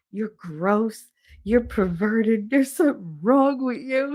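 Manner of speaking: imitated disgusted scolding, rising in pitch; retold indignant dressing-down; telling off. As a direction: scold with drawn-out mock disgust. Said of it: "He told his father off".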